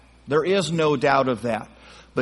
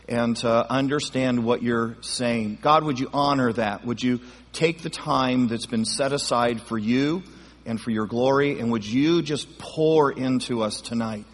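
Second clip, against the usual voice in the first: spoken prayer; 2 semitones lower than usual. Real, not acted. Pastor asks God to pour into the group, praying. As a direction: lead the room in prayer, settling down to the amen.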